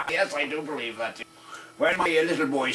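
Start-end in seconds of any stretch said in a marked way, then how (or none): 0.1-1.2 laughing. Real, not acted. Still laughing at own joke.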